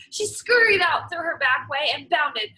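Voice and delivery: lively storybook read-aloud for a class; teacher reading a folk tale aloud; story reading to children. Acted. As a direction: read it like story time, voicing every animal. Reads picture book to class.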